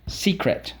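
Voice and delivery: Secret whispered back, unvoiced; a hushed whisper of Secret; whispered echo. Shown as a demonstration. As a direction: breathe Secret like a secret. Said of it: "What's the word".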